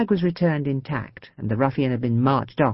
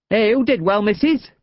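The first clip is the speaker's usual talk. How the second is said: passer-by praising; 6 semitones higher, 4 dB louder than usual. A narrator's reading. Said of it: "one of them told Louise".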